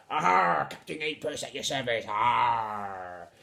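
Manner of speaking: a loud pirate "Aha" to open and close a light greeting; lightly voiced pirate captain bowing to Henry; hammed-up pirate. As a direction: play the swaggering tiny captain. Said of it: "I'm not a very good pirate voice".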